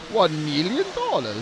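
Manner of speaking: slow, drawn-out villain gloat; unhinged villain. Pretend. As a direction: savour each word like a movie villain. Evil laugh game, villain line.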